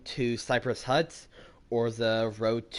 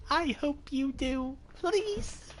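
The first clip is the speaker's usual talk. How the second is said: very high falsetto plea, drawn out; squeaky pleading; slower than usual. Pretend. Streamer begging the hunter to survive, squeaky mock plea. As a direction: beg in a tiny squeaky falsetto.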